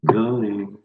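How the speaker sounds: drawn-out going. Pretend. Drawn-out chant of the word.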